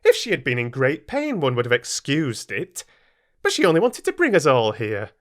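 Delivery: disgusted. Acted. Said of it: "in some disgust".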